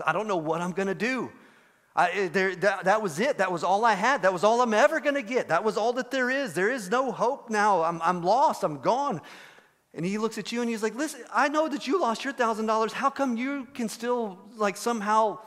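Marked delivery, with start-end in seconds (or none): 0.0-9.2 acted despair, building from resigned to pleading; mildly hammed-up hopelessness; despairing friend. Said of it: "He's so sad". 10.9-15.4 higher, pleading disbelief; acted incredulous plea; bewildered pleading. Acting the bewildered, despairing friend's question.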